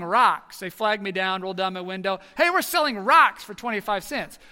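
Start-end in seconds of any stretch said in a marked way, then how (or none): 2.4-4.4 put-on eager kids calling.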